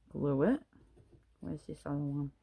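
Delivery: talking around a paintbrush held in teeth; words slurred by a brush between the teeth; paintbrush in mouth. Real, not acted. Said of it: "Sorry, I've got the paintbrush in my mouth".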